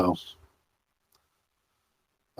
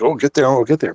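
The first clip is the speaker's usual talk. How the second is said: imitating angry dad; 4 semitones higher, faster than usual. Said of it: "sounded like Dad got mad at the kids".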